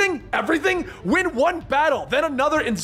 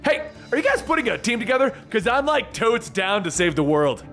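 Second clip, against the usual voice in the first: calling out; 6 semitones higher than usual. Acted. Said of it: "Deadpool calls out to her again".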